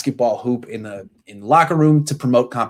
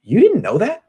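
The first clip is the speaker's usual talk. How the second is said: Colin's haughty comeback, pitched higher; mock Colin; 8 semitones higher, 3 dB louder than usual. A former teammate mimics Colin putting down Marlon, mock snooty. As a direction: play it smug and surprised someone didn't know. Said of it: "and he goes".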